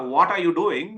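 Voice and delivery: over-stressed Asian-accented English; strong Asian accent. Shown as a demonstration. Coach showing learners what not to do, strong Asian accent. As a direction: demo of a heavy South Asian accent. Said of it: "You don't need to be like".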